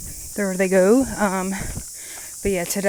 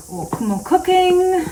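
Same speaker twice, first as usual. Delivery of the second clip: silly high voice; 9 semitones higher, 3 dB louder than usual. Shown as a demonstration. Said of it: "I don't know why I did that".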